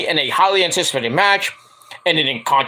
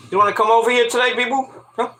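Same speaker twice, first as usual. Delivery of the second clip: pet talk; 4 semitones higher, faster than usual. Real, not acted. Coaxing the cat.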